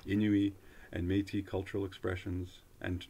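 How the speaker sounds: measured, fluent announcement reading; formal read-aloud. Real, not acted. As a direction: read it out like an official notice, phrase by phrase. Reads a government web page aloud.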